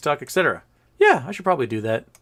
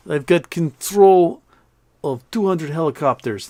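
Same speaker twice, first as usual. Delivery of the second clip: acted irritation, louder and slower at first; peeved Russian general; 4 semitones higher, 5 dB louder, slower than usual. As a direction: boast loudly as a miffed Russian officer. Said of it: "getting a little peeved now".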